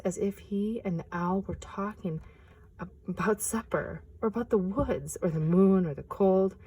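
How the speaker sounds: gentle picture-book reading; storyteller reading aloud; story narration. A narrator's reading.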